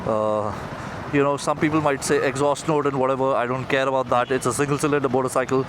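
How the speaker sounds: muffled through a helmet; talking into a helmet mic; inside a helmet. Real, not acted. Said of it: "a guy who's talking into his helmet".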